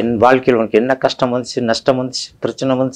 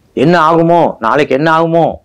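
mock worried fretting; 7 semitones higher than usual. Voicing worried thoughts.

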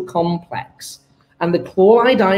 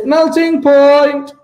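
excited answer; 8 semitones higher, 7 dB louder, slower than usual. Real, not acted. Answering exam question triumphantly.

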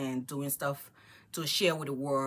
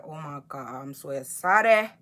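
excited; 4 semitones lower, 5 dB louder than usual. Retold or imitated. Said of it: "I'm like".

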